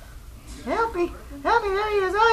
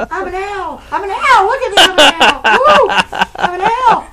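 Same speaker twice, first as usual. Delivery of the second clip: excited shout; 11 dB louder than usual. Pretend. Playing owl with crazy eyes.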